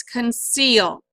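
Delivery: conceal with the weight on seal; stress on second syllable. Shown as a demonstration. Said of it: "Not conceal, conceal".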